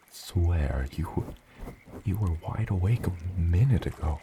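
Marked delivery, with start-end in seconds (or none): 2.0-4.2 playful disbelief. Acted. Catches the child falling asleep.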